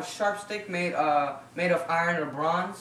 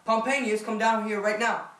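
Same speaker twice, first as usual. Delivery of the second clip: yelling across the room; 4 semitones higher, 3 dB louder than usual. Acted. Emperor summons his map maker.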